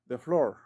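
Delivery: "the floor" with "the" as "da"; "the" before consonant. Shown as a demonstration. Teacher gives an example, "the floor" said "da floor". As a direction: say "the floor" as "da floor", tapped r. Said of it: "esta suena como the floor".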